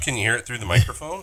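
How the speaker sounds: blocked nose from the flu; congested cold voice with a stuffy nose. Real, not acted. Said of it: "Sounds like you got a clothespin on your nose".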